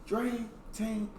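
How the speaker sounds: long, high, loud hype greeting; drawn-out intro shout. Real, not acted. Hyping up his audience at the start, drawn-out shout. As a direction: stretch the greeting out big for the viewers.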